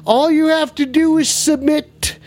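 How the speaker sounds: high, theatrical ghoul demand; lightly voiced creepy ghoul.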